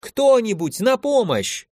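high desperate call for help; cry for help. A narrator's reading. Lady in the cell calls for help, high desperate cry. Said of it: "женским криком".

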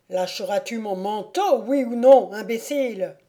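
shouted oui ou non; angry stranger. Acted. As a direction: lose patience and yell. Stranger loses temper.

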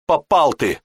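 put-on worried girl. Lara worried warning.

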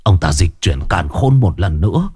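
put-on halting, effortful old man's explanation; ailing old father. Sick father propped up to breathe explains to sons, laboured. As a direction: pause for breath between short phrases.

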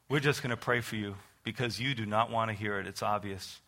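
low, soft, measured pastor's voice; calm resignation. Retold or imitated. Pastor gives up on backslider.

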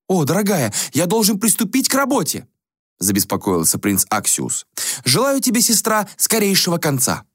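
put-on high, airy voice of a vain young prince; a high, languid young prince; prince Axius voice. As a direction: play the bored, spoiled prince. Prince character voice.

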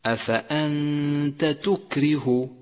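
slow recitation of أفأنت تكره, both ت kept apart; don't merge the two ت in أفأنت تكره; إظهار التاءين. Shown as a demonstration. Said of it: "بل يجب التوضيح". (ترتيل أفأنت تكره ببطء مع توضيح التاءين)

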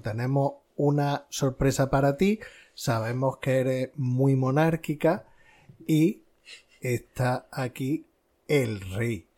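slow retold announcement with long pauses; suspenseful announcement. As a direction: draw out the reveal, pausing before the last words. Retells staged surprise announcement to Carmen.

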